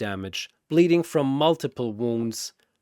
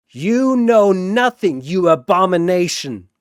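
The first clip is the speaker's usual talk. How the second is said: furious retort; 5 semitones higher, 8 dB louder than usual. Acted. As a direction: spit the words back. Sephiroth answers insult.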